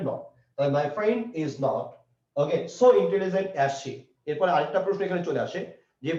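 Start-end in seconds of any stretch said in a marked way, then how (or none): 0.8-3.9 slow dictation. Shown as a demonstration. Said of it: "এখানে hundred percent কি বসবে".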